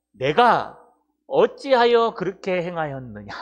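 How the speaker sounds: loud, drawn-out reproach from scripture; scolding. Acted. Frightened sailors demand answers from Jonah, scolding. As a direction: read the question as a stern telling-off. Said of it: "이게 히브리어로 야단치는 거예요".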